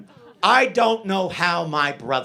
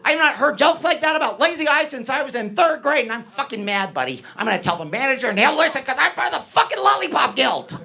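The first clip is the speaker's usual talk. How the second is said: high-pitched indignant rant; mock angry yelling; 7 semitones higher than usual. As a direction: imitate an offended little man telling someone off. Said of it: "immediately he's yelling at me".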